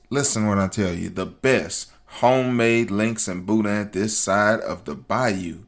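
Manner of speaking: usual speaking voice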